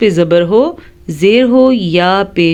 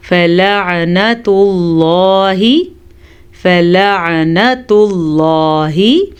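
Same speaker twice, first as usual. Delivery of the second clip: slow, drawn-out tajweed chant; Quran recitation; much slower than usual. Shown as a demonstration. Teacher reciting for students. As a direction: intone the Arabic slowly.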